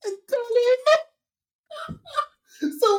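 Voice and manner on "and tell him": man voice. Retold or imitated. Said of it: "I'm gonna change my voice and take a man voice".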